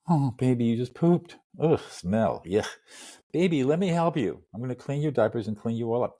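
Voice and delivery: lightly voiced parent cooing at a baby. Voicing a parent changing a baby.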